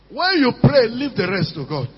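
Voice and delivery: preacher's rising call; loud call. Real, not acted. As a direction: lift the voice to the church. Preacher calls out to church.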